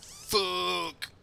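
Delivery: high, loud cursing outburst; frustrated shout. Real, not acted. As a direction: yell it, kicking yourself for forgetting. Realizes they forgot flying.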